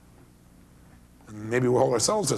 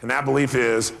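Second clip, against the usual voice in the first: ordinary talk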